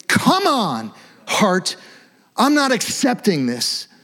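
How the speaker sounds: high, pleading, intense plea; fervent pleading prayer. Shown as a demonstration. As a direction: beg God to break your hard heart. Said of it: "you don't have to yell".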